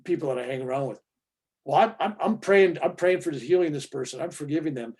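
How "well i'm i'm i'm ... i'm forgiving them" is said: pious self-righteous friend. Retold or imitated. Mocking a churchgoing friend, he plays a pious boaster. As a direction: parody a preachy friend bragging about praying. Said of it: "I hear some of my fellow".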